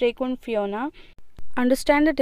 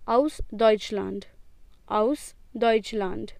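slow model reading; slower than usual. Shown as a demonstration. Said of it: "Please repeat after me".

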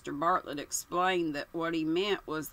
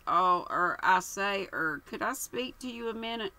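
put-on dithering young man; 3 semitones higher than usual. Bartlett waylays the men.

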